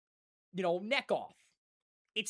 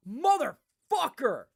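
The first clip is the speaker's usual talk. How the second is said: retold curse; 8 semitones higher, 4 dB louder, much slower than usual. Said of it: "and I go".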